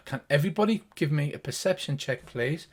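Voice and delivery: ordinary talk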